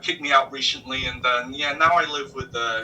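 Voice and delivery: Brooklyn driver venting about his wife; New York accent. Retold or imitated. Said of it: "your New York voice is great".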